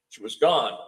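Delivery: normal talking voice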